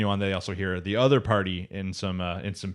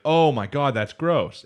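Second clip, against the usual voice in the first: mock disgust; 6 semitones higher, 6 dB louder, slower than usual. Kid learns it ate shrimp.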